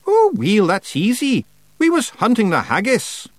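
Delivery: high, loud, happy Feegle. A narrator's reading. Feegle offers witch an excuse, happy. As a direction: toss off the excuse happily. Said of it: "Rob Anybody said happily".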